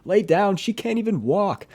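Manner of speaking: high-pitched heckle, imitating a bystander; piping up. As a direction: pipe up loudly from the side in a high pitch. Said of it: "somebody else piped up right after saying".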